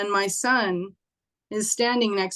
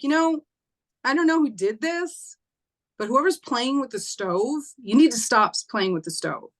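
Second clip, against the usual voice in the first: stern scolding; 3 semitones higher than usual. Retold or imitated. Scolding unseen boys about stove.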